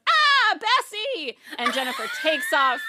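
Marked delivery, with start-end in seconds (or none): 0.1-1.4 high loud wail of a name; anguished cry. Acted. Farm woman crying out to her dead cow's ghost, high loud wail. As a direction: cry out to a lost pet cow. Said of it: "and she goes".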